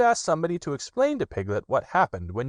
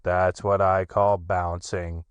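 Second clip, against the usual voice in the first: slow, mournful donkey voice; slow, glum old donkey; gloomy Eeyore; slower than usual. Acted. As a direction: sulk it out as Eeyore. Eeyore complains.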